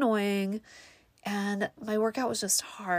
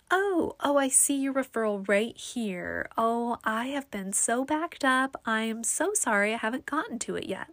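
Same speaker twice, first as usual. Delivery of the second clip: lightly voiced apologetic referrals lady; apologetic clerk; 4 semitones higher than usual. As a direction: imitate a flustered, over-apologetic office worker.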